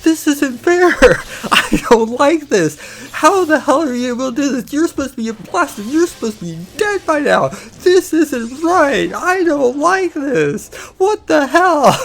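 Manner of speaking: high, loud mock tantrum; screaming complaint. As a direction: whine and yell like an outraged gamer losing it. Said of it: "screaming and bitching and yelling".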